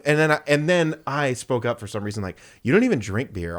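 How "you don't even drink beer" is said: attitudey. Retold or imitated. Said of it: "all attitudey".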